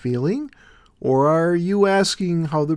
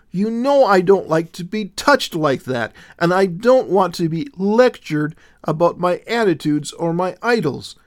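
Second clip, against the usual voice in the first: higher and louder, anxious outburst; nervous exclaiming; 6 semitones higher, 4 dB louder than usual. A narrator's reading. Willow protesting to Jesus, nervous and high-pitched. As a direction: pour it out in a rising nervous panic. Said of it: "she exclaimed nervously".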